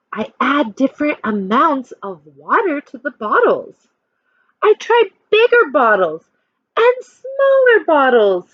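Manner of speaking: put-on reading a picture book to children; lively storytime voice for a class; expressive read-aloud for kids; story narration. A narrator's reading.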